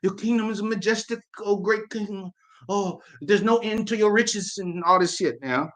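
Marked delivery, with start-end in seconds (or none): 0.0-4.6 bow and scrape before the great king; fawning worshipper. Retold or imitated. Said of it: "it was like".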